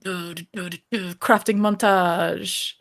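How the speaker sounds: slow, dramatic trailer announcer; drawn out like a movie trailer. Pretend.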